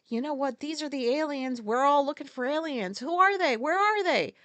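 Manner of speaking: voicing people hunting aliens, building excitement; mock searching. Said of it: "this is just like".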